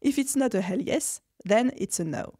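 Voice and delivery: English phrase in a light French accent; a French speaker quoting an English motto. Shown as a demonstration. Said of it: "excusez mon accent anglais".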